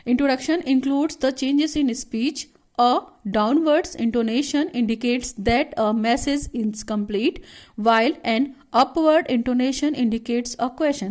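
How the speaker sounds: reading the textbook line out very slowly for notes; slow dictation reading. Shown as a demonstration. Teacher reads the definition to students, slow and deliberate. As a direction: dictate each word slowly so the class can write it down.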